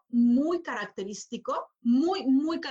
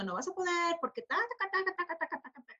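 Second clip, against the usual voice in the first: a light, higher, softer mock of the doubting inner voice; nagging inner voice; 4 semitones higher, 4 dB quieter, faster than usual. Coach voicing her own doubting inner voice, lightly mocking. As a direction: mimic the little voice that says you can't. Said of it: "esa vocecita que te está diciendo".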